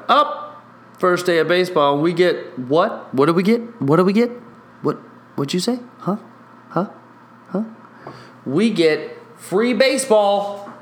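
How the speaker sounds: high-pitched, giddy baseball fan; hyped-up call and response; excited self-quote. Retold or imitated. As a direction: act out calling to the crowd for an answer. Acts out own excited garage calls.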